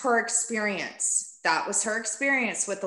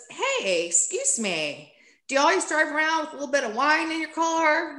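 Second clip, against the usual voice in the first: a hint of a suspicious cop, pitched higher; lightly voiced officer, quick prying question; imitating the cop; 7 semitones higher than usual. Retelling the cop questioning her about the wine, higher and quicker.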